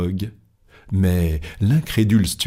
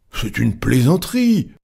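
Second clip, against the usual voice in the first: higher-pitched outburst; incredulous protest; 5 semitones higher than usual. Acted. A club member doubts Fogg is serious, incredulous. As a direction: toss it out in disbelief.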